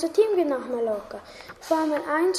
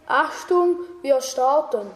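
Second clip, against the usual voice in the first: pilot announcement; 3 dB louder than usual. Acted. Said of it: "sagt der Pilot".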